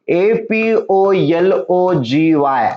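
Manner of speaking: आर ई ए एल आय झेड ई, each letter said slowly and separately; spelled out letter by letter. Shown as a demonstration. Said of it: "spelling the word out". (अक्षर अक्षर सावकाश सांगणे)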